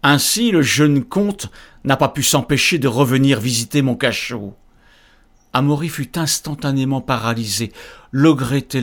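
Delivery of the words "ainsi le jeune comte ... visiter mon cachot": booming demon lord, menacing; loud, looming cavernous threat; cavernous ogre voice. Acted. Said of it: "une voix caverneuse".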